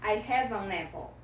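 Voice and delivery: careful demo of linking in HAVE AN APPLE; linked pronunciation. Shown as a demonstration. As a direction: HAVE AN APPLE joined as 'ha-vun-napple'. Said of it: "Deu pra juntar a pronúncia?".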